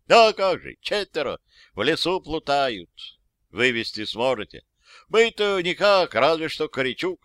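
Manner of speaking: lightly voiced folksy old soldier. Old soldier reporting to his officer, folksy and lively. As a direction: tell it like a simple old private.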